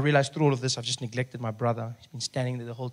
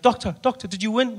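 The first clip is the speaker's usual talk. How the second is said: high, eager question; hopeful relative; 9 semitones higher, 3 dB louder than usual. Retold or imitated. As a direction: ask it like a fan.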